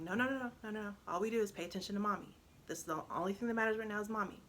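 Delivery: retold mom firmly refocusing her child; insistent reassurance. Mother telling her crying son to focus only on her, insistently reassuring.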